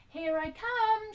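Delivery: high, loud and slow sing-song call; a girl playing hide and seek, calling out. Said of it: "she cried".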